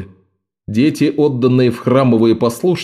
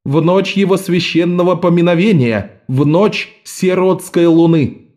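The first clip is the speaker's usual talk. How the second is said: solemn priestess; 7 semitones higher than usual. A narrator's reading. Priestess continues ritual proclamation.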